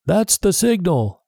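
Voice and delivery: pirate shouting about the whistle; shouted warning. A narrator's reading. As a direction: warn the others the signal has come. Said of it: "one of the men shouted".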